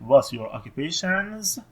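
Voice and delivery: very slow, word by word; slow model answer. Shown as a demonstration. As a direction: read it out slowly for the class. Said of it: "پاسخ سمت چپ رو بنویسید". (آهسته و کلمه به کلمه)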